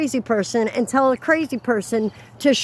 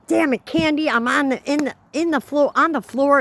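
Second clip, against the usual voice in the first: higher-pitched mock yell of annoyance; retold yell; 4 semitones higher than usual. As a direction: re-enact an irritated outburst after tripping. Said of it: "So I yelled".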